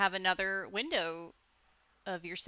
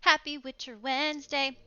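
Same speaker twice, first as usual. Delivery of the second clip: cheery show greeting; 8 semitones higher, 5 dB louder than usual. Acted. Streamer's sing-song show greeting.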